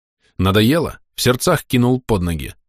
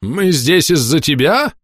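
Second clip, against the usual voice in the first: slow, higher menacing question; 8 semitones higher, slower than usual. Acted. Corporal accuses the narrator, slow and threatening. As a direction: press him hard, accusing. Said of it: "грозно спросил капрал".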